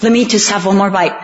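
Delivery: a hint of coaxing mother, a little quick; imitating mom begging for the brownie; pleading mom. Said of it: "she'd go".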